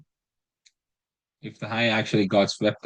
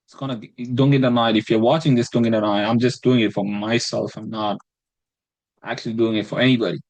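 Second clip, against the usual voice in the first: put-on British accent. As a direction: ham up a mock British accent for fun. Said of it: "I'm gonna talk in British accent".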